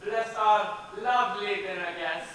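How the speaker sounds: lightly intoned table prayer with a sly turn at the end; saying grace. Acted. Grandfather saying grace over dinner, mock-solemn prayer. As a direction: pray over the dinner, half-solemn, half-teasing.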